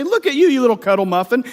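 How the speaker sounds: quick pretend baby talk to a pet; light cutesy sweet-talk; mock cooing. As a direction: coo playfully as if at something cute. Cooing at a snake in hypothetical.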